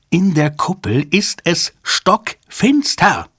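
high, slow, emphatic mild yell; shrieked. A narrator's reading. Mitch insisting to Jabba on the phone, mild shriek. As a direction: yell it high, word by word, without full volume. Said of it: "schrie Mitch".

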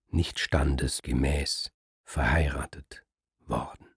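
a venomous low whisper. Acted. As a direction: hiss the insult under her breath. Brünnhild finally says the insult.

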